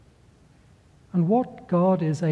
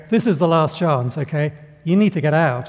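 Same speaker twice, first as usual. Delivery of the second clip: loud urgent call from the helicopter; 4 dB louder than usual. Acted. Helicopter crew shouting a final warning to the man, loud. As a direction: shout the last warning over the noise.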